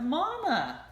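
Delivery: high, loud happy call; excited cry. A narrator's reading. Ducklings excitedly calling the rabbit mama. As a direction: shout with joy. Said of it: "cried the ducklings in excitement".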